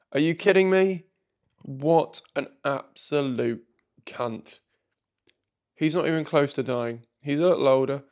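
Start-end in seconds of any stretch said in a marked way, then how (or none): 0.1-4.6 incredulous outrage. Real, not acted. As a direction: demand it, appalled. Boyfriend's cruel words.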